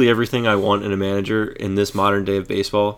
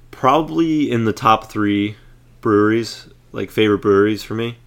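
congested, like a cold coming on; stuffy nose. Real, not acted. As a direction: talk through a blocked stuffy nose. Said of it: "You sound like you're getting a cold there".

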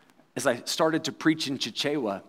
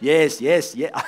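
congregation answering; 3 semitones lower than usual. Retold or imitated. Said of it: "they would have to say".

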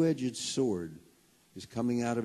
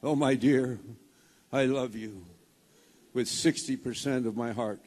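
mock Broadway drama; 3 dB louder than usual. Husband hamming it up to his wife, mock Broadway. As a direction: play it like a mock stage declaration. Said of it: "in my dramatic voice from Broadway".

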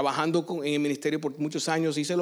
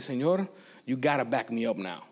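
súplica privada; 7 semitones lower, 5 dB quieter than usual. Retold or imitated. Private plea to God retold.

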